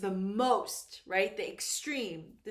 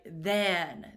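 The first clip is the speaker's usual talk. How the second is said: than कहते समय उस पर ज़ोर, आवाज़ नीचे गिरती हुई; stress on than; 5 semitones lower, 3 dB louder than usual. Shown as a demonstration. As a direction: hit the word than and let it fall. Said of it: "Than is the key word".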